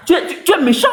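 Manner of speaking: put-on high, sulky child's whine of "méchant"; whiny childish reproach. To Baba on the live, a mock child's whine. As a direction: pout it out like a hurt kid.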